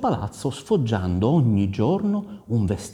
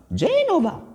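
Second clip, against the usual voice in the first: queen naming her son. Acted. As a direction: give the name way up high. Caterina names the baby. (voce di dama, acutissima)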